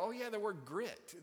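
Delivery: acting out an "aha" moment; sudden realization. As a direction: recall it just clicking, pitch lifted. Retells his sudden realization at DVD.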